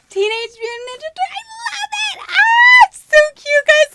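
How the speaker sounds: high, loud delighted squeals; excited squeal. Real, not acted. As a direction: shriek with joy at the gift. Squealing over a gift.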